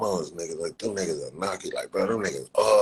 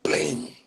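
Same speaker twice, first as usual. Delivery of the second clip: high ringing "bling"; imitated bat clang; 9 semitones higher, 4 dB louder than usual. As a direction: imitate the ping of a bat hit. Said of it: "I hit one with one of them".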